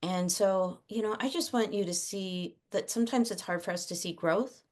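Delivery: soft, gentle words of thanks to a son; quiet, heartfelt appreciation; tender praise to child. Retold or imitated. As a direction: speak softly and sincerely to your kid.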